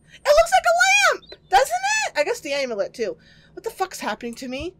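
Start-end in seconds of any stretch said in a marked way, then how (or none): 0.1-2.2 mock cheerful. Mocking the mold lamp.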